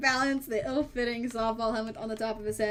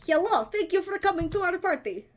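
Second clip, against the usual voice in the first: put-on higher, sweet child hostess voice; little girl voice; 7 semitones higher, 4 dB louder than usual. Child hostess welcoming guests, higher sweet voice. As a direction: play a prim little girl greeting guests. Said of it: "I'm doing that voice on purpose now".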